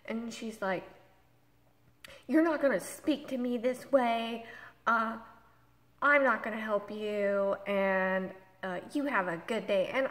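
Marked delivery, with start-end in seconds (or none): 2.3-9.9 a bit louder, curt brush-off; retold loud attitude. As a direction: imitate an agent shutting the caller down. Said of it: "really loud, getting an attitude".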